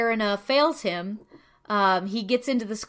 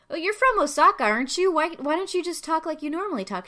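high, bright teasing voice for the classmates; 7 semitones higher, faster than usual. Retold or imitated. Classmates coax the Osaka girl, high and teasing. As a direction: egg her on to drop the act. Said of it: "they're like".

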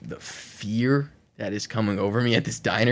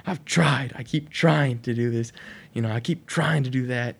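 mild mock scream, higher at the start; retold scream; 4 semitones higher than usual. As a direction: plead as if screaming, only partly raised. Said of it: "I keep screaming".

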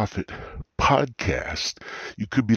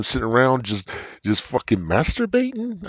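incredulous; 4 semitones higher than usual. Acted. Incredulous mock accusation.

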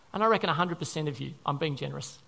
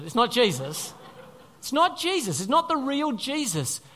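emphatic insistence; 4 semitones higher, 3 dB louder than usual. Real, not acted. Emphatic correction.

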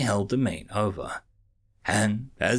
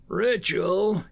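higher, louder puzzled echo; questioning; 8 semitones higher, 4 dB louder than usual. Acted. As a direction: echo the word in doubt. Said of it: "he questioned".

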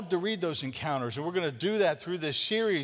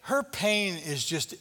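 callous disciples; 4 semitones lower, much slower than usual. Retold or imitated. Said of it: "it's like they're saying".

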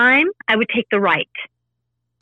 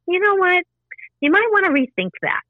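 higher, light and gentle nudge; lighter inner voice; 9 semitones higher than usual. Retold or imitated. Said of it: "one has a lighter side".

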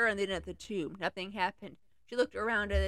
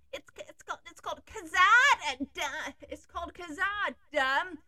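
panting; 6 semitones higher than usual. Acted. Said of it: "panted Gimli".

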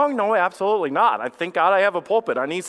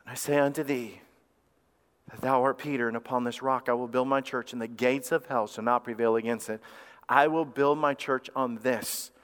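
measured scripture reading; 5 semitones lower, 4 dB quieter than usual. Real, not acted.

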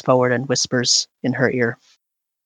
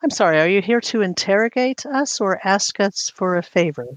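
higher-pitched, affronted challenge; affronted queen; 5 semitones higher than usual. Acted. Queen asks visitors if they came to interrogate, affronted. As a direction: push back at impertinent questioning.

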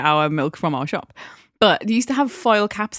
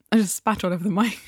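talking with mouth full; speaking around a bite of toffee. Real, not acted. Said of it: "For fuck's sake".

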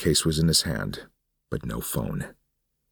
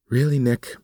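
much higher, contemptuous woman's voice; scornful woman; 10 semitones higher, 5 dB louder than usual. Acted. Suzanne mocks Nick for trusting her: scornful, higher. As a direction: sneer down at him.

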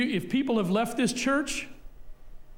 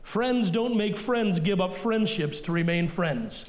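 slow saying; 3 semitones lower, slower than usual. Shown as a demonstration. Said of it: "Did you get that?".

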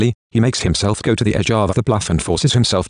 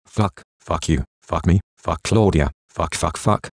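gritted teeth; 2 semitones lower, slower than usual. A narrator's reading. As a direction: force the curses out through clenched teeth. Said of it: "He grits through clenched teeth".

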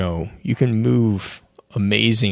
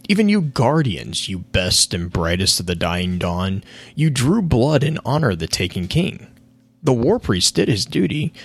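Toland voice; 4 semitones higher than usual. Acted. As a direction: rant like a gleeful mad prophet. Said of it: "So King's Fall".

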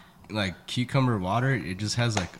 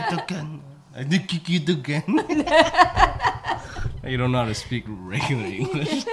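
laughing; 4 semitones higher than usual. Real, not acted. Mocking friend through laughter.

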